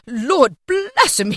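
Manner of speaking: high, slow, loud gasped exclamation; breathless astonishment. A narrator's reading. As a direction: cry out as if winded by shock. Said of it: "as if his breath were taken away".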